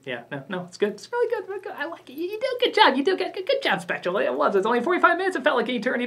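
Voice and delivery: sarcastic praise. Retold or imitated. Fake praise for the filmmaker.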